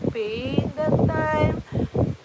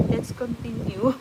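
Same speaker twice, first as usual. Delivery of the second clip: laughing through the words; laughing as she resumes; slower than usual. Real, not acted. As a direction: giggle it out. Laughing while restarting.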